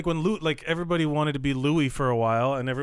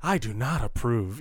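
mock disapproving commentary, a little lower; Jim Gaffigan second voice; 4 semitones lower than usual. Comic mimics self-commentary on the act, mock disapproval. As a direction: lightly put on a disapproving onlooker. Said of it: "he'll make his own commentary".

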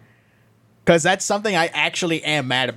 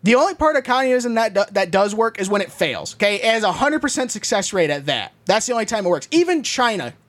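hammed-up angry rant; 2 semitones higher than usual. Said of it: "what are you so mad about".

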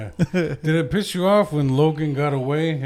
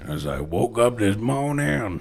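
blues man voice; 2 semitones lower than usual. Pretend. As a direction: lay it out like an old bluesman. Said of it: "your blues man voice".

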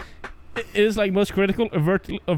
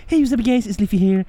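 fast, lightly voiced vlogger intro; Leafy impression; faster than usual. Doing the YouTuber's intro again, quick and chirpy. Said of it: "You have the perfect voice for it".

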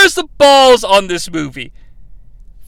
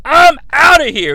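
mock angry wife; 6 semitones higher, 3 dB louder than usual. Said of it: "she's like".

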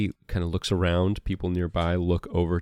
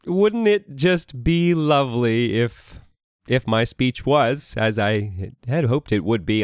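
warm regal boom; 10 semitones higher than usual. Acted. Duke continues speech.

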